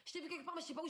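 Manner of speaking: put-on young girl voice. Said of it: "C'était une jeune".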